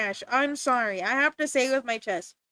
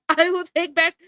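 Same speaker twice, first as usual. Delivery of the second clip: laughing exasperation; 5 dB louder than usual. Real, not acted. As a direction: plead through laughter. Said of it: "I can't stand it".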